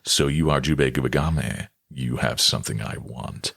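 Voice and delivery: very low anime villain voice; deep, sinking voice that softens at the end; Yagi Renya. Shown as a demonstration. Voice actor demonstrating a Ninja Scroll character, deep villain voice. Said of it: "Yagi Renya".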